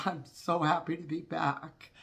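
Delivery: really mean it, straight from the heart; heartfelt. Real, not acted. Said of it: "this is one time I can heartfully say".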